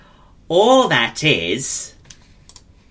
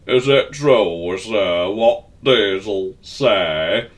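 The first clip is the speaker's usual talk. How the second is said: sorrowful; 3 semitones lower than usual. Acted. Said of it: "rather sorrowfully".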